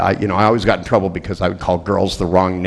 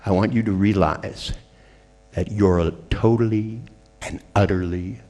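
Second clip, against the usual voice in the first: slow hypnotic reveal. Retold or imitated. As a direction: let totally and utterly alone land slowly. Hypnotic punchline to the wife.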